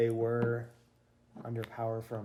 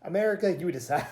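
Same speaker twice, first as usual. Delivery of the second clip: mock announcer; 5 semitones higher, 4 dB louder than usual.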